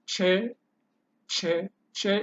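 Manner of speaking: loose "che" made toward the front of the mouth. Shown as a demonstration. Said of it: "is a little bit loose and is towards the front".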